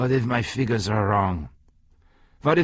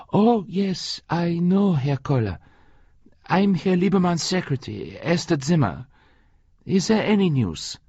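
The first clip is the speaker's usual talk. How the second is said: higher voice of an eager secretary; 6 semitones higher than usual. Acted. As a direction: answer the phone eagerly. Esther voiced on phone.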